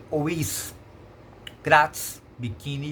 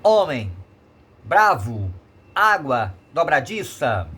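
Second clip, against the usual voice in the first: loud next-to-last syllable, then falling, in Homem, bravo, água, dobradiça; penultimate syllable stressed; 6 dB louder, slower than usual. Shown as a demonstration. Teacher repeating paroxytone examples, stressing the penultimate in Homem, bravo, água, dobradiça. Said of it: "sua sílaba tônica será sempre a penúltima".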